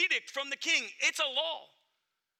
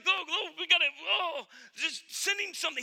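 mock distress; 3 semitones higher than usual. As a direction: fuss in a brief mock panic. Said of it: "she's distressed".

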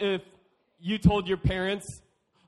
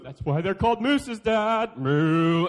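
put-on louder, triumphant little boy; cheeky kid; 7 dB louder, slower than usual. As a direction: win the argument like a kid. Kid arguing back at dad.

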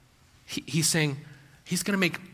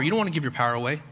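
rushed aside; much faster than usual. Shown as a demonstration. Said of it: "You're giving away your power".

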